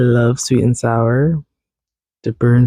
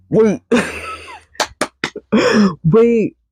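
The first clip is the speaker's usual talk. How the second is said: excited realization; 9 semitones higher than usual. Real, not acted. Sudden realization laugh.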